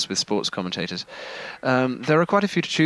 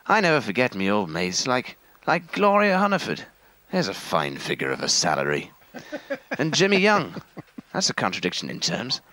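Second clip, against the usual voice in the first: lightly voiced Wogan, voice going up and down; Terry Wogan. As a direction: swing the intonation up and down, self-deprecating. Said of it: "can you do him".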